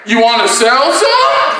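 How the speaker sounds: slow question climbing in pitch; a lightly voiced, drawn-out offer; shady fisherman. Man fishing recruits a kid, slow rising drawl.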